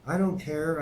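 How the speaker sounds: high, loud angry yell. Acted. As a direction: snap it out loudly. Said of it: "I yelled".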